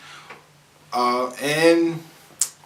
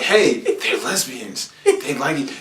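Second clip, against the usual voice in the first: slow, laughing teasing voice; laughing mock taunt; slower than usual. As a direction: tease it with a laugh. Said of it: "it's like they're taunting with us".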